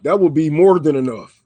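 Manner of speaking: ordinary talk, nothing marked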